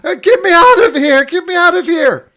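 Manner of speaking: high, loud, muffled panic behind a door. Acted. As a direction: cry out muffled through the wall. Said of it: "you hear Artis in a muffled voice".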